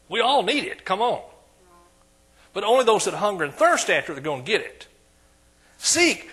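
rising preaching. Acted. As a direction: build the sermon to a peak and call the verse out. Preaching builds to a shout.

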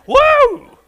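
a very high, very loud joyful whoop. Real, not acted. Preacher whooping to the congregation, very loud and high. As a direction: let out a revival whoop. Shouting in revival fervor.

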